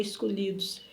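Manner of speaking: low, soft obedient echo; small imitated answer; retold meek reply. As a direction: repeat it meekly, as you did then.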